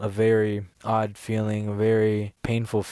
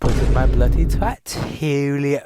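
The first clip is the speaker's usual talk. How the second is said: imitating a British-sounding European accent, higher; hammed-up British-like European accent, pitched up; mock European accent; 3 semitones higher, 6 dB louder than usual. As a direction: put on a near-British European accent to mimic her. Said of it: "she had, like, a little accent".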